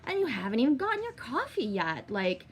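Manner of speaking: exasperated mock scolding, pitch leaping on key words; retold exasperation. Telling off a friend before her coffee, exasperated. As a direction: act out telling a friend off, incredulous.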